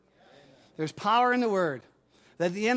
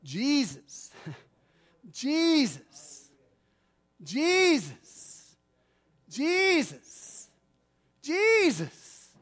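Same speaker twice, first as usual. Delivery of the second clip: whispered plea building; 5 semitones higher, much slower than usual. Pretend. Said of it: "And you just say".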